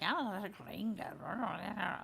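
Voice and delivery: slow, lightly growled mutter; mock growly mutter. Stranger at the counter mutters about her, slow mock growl. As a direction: drag it out like a creepy stranger. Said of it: "like, growly".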